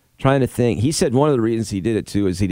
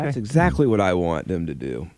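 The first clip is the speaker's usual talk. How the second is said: sarcastic. Real, not acted. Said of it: "I'm being sarcastic".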